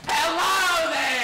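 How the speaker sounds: loud creature greeting. Acted. Hideous creature greets loudly.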